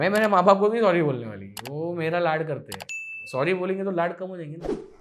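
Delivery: mock self-assured daughter, starting loud and quick; imitated daughter ego. Boyfriend imitates her refusing to apologise to parents, mock-haughty. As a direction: play the proud, pampered daughter. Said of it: "she has that daughter ego".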